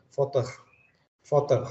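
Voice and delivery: "votre" with a gargled R and no final E; French votre. Shown as a demonstration. Teacher demonstrates "votre" for the class, gargled R. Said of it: "seperti kita berkumur ya".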